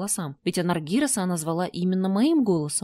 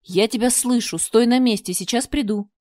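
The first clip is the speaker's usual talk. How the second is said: loud, carrying shout; booming call; 4 semitones higher, 5 dB louder than usual. Acted. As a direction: call back through the maze. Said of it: "зычно откликнулся он". (Анаргирос зычно кричит в ответ)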